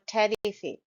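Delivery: terrific said "TARR-ific" with a full opening vowel; wrong first vowel. Shown as a demonstration. Teacher showing another mistaken terrific, full first vowel. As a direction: give terrific an open, unreduced first syllable. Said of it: "It's not terrific".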